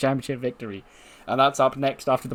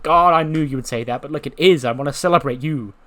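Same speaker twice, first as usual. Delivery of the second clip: bubbly insistence; 5 dB louder than usual. Acted. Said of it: "Cora's like".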